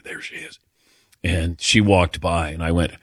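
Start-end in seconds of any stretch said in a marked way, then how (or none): 0.0-0.6 whispered, very soft; quiet voice. Shown as a demonstration. Host afraid to approach his crush, whispering. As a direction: whisper it under your breath. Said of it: "my quiet voice there".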